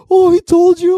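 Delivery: high squeaky fake-innocent voice; mock innocent. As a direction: play dumb in a high silly voice. Mock innocent reply to mom.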